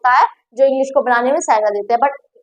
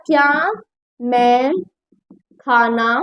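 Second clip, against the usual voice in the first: lower, with pauses between the words; slow spaced dictation; 3 semitones lower, much slower than usual. Shown as a demonstration. Teacher dictating the question, slow and spaced. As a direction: read it out word by word. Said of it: "ऐसे भी सवाल करते हो".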